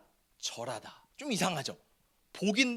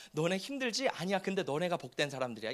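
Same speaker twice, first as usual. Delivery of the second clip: God's gentle voice; 3 semitones lower, 5 dB quieter than usual. Acted. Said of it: "하나님이 이스라엘 백성들에게 말씀하세요".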